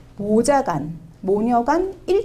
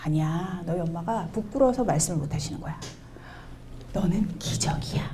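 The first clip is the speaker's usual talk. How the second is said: soft reassurance; 4 semitones lower, 6 dB quieter than usual. Retold or imitated. Teacher reassures children softly.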